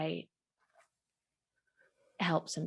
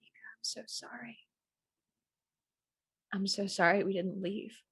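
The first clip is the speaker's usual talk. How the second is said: sad; 2 semitones higher, faster than usual. Acted. Grief-stricken apology to dead friend.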